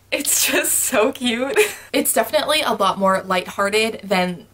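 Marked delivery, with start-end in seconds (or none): 0.1-1.7 slow, drawn-out swooning; dreamy gush over a cute show. Real, not acted. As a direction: stretch it out like you're melting. Gushing about K-drama.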